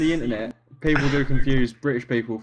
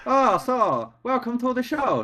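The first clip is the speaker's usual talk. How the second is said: much higher, caricatured Asian accent; mock Asian accent; 11 semitones higher than usual. Shown as a demonstration. Showing a voice they feel bad doing, Asian accent. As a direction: pitch it right up in a put-on Asian accent. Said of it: "when I do Asian voices".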